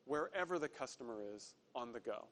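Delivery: ordinary delivery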